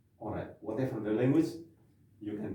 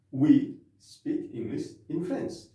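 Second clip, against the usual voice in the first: slow model phrase; 3 semitones higher, 3 dB louder, slower than usual. Shown as a demonstration. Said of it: "how do we say".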